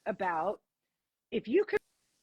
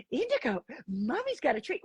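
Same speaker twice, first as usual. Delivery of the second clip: coaxing pet talk. Shown as a demonstration. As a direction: coax the dog with a treat. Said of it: "you can't be like".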